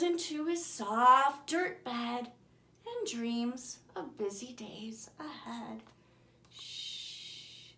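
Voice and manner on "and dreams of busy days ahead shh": much softer bedtime whisper. A narrator's reading. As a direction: whisper him into dreams. Drifting to sleep, hushing.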